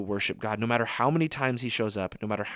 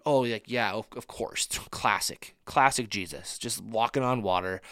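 mock nonchalance. Imagined unimpressed disciples acted out.

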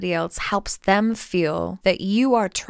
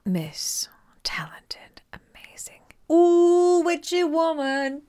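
hype announcer; 9 semitones higher, slower than usual. Pretend. Hyping up the logo artist.

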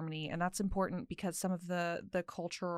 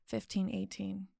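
storytelling voice. Acted. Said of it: "I put on my storytelling voice".

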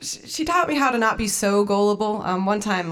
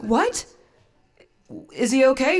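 higher, startled acted question; worried reply; 5 semitones higher than usual. Answering sister about the dog, worried and higher. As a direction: ask in mild mock alarm.

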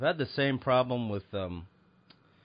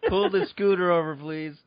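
loud high siren-like whoop then orders; mall cop calling out; 8 semitones higher, 7 dB louder, slower than usual. Pretend. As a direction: shout from a scooter.

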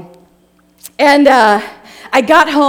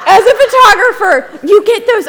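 laughing; 9 semitones higher, 6 dB louder than usual. Real, not acted. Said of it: "laughing while talking".

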